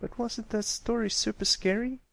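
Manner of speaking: high, eager question. Acted. Scootaloo asking friends about her story, eager. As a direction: fish for praise. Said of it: "with an eager grin".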